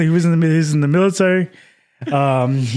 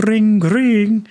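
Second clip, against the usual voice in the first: higher, mock telephone ring; phone ring imitation; 6 semitones higher, 3 dB louder than usual. Telling friend about getting a phone call, imitated ringing.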